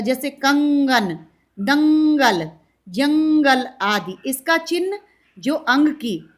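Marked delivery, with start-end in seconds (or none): 0.3-3.7 slow कंगन दंगल जंगल, nasal ं stressed; nasal sound demo. Shown as a demonstration. Teacher showing anusvar nasal sound to students. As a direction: say the words slowly through the nose. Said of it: "नाक से होता है".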